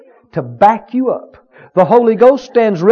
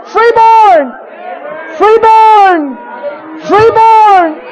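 high, loud preacher's shout; shouted revival preaching; preaching at full force; 12 semitones higher, 6 dB louder, slower than usual. Acted. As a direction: build to a ringing climax.

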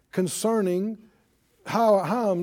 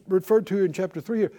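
usual speaking voice

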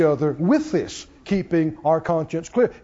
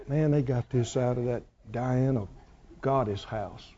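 much softer and lower, a confidential murmur; hushed aside; 8 semitones lower, 8 dB quieter than usual. Retold or imitated. A dinner guest warns Paul about the meat, hushed and confidential. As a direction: lean in and tell a secret. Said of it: "the guy leans over and goes".

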